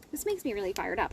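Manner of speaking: normal talking voice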